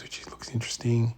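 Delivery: soft unvoiced whisper; hushed aside at a bonsai show. Real, not acted. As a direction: murmur it so others nearby won't hear. Quiet remark at bonsai show.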